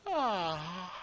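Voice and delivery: teacher acting out a yawn. Shown as a demonstration. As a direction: let out a yawn to show the word. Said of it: "that means why you say".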